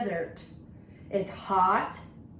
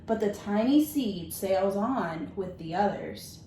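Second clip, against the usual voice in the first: gentle, measured storybook reading; reading to children. Acted. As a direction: read it like story time for a class. Teacher reads picture book aloud.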